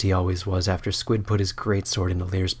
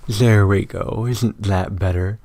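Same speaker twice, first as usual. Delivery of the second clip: mock soothing; 4 dB louder, slower than usual. Skorbrand soothing Squid.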